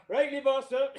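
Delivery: caving instantly; mock meek compliance. Soldier to the warrant officer, meek yes sir.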